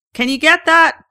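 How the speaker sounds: loud, high call from another room; mom yells. Retold or imitated. Mom calling her daughter to the phone, a loud high yell. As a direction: shout it across the house. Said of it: "Mom yells from somewhere".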